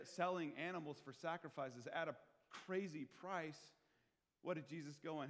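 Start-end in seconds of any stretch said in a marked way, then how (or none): none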